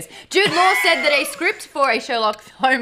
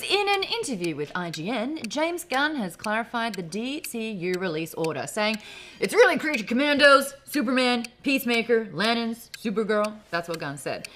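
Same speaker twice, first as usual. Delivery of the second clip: newsreader voice. Acted. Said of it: "I'm gonna give you my newsreader voice".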